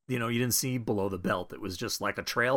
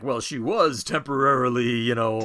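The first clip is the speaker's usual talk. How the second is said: dopey Captain America; 2 semitones higher, 6 dB louder than usual. Retold or imitated. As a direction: play it like a clueless hero laughing it off. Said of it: "Cap stupidly is like".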